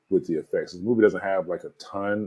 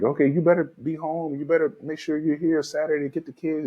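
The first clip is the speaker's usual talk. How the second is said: mock nagging yell; 9 semitones higher than usual. Ex-wife on the phone about the kids, mock yelling. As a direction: imitate an ex-wife telling him off. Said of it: "yelling at him, like".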